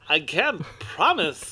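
very slow, halting delivery; slow, deliberate celebrity-style drawl; hammy impressionist actor. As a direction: draw each word out in a put-on actor's voice. Plays Kevin Pollak doing impressions.

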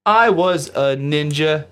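lightly voiced beat poet; slow, drawn-out beatnik recital. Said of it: "Mike Myers to pop in and be like".

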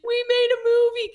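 very high, overwhelmed celebratory cry; retold elation. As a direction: re-enact a joyful finish to the season. Tearful celebration with friend, retold.

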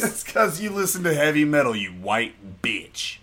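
mock-scolding, drawn out on the final words; playful put-down that slows right down at the end; ghetto sass, joking. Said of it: "That was the ghetto coming out of me".

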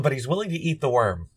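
ordinary delivery

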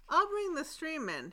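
bold call. Acted. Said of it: "he called boldly".

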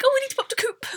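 high-pitched imitation, coop said as "koop". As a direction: pipe up high, coop rhyming with loop. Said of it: "Alex's family doing it as well".

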